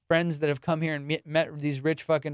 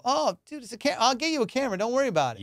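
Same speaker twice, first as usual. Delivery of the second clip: mock eager boyfriend; 8 semitones higher, faster than usual. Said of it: "to see if I go".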